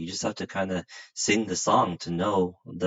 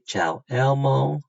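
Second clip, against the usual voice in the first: demo greeting; 6 semitones higher, 6 dB louder than usual. Shown as a demonstration. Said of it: "So when I say".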